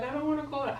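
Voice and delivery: high-pitched reluctant protest; retold reluctant dread. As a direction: replay balking at a dreaded call, pitch climbing. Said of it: "I was terrified of calling her".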